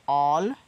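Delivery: "ऑलवेज" said as awl-weighs; pronounce always. Shown as a demonstration. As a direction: say "ऑलवेज" clearly, stress on ऑल. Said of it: "ऐसे". ("ऑलवेज" को ऑल पर ज़ोर देकर बोलो)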